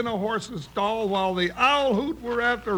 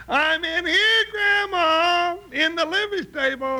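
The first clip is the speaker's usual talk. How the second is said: raised voice toward the door; calling out; 7 semitones higher than usual. Acted. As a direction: shout so grandma can hear. Calling out to grandma.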